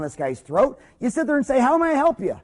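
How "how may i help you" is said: higher, open, welcoming question; friendly greeting. Shown as a demonstration. Dentist greeting an upset patient, warmly inviting. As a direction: greet the patient like you mean it. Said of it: "Just like that".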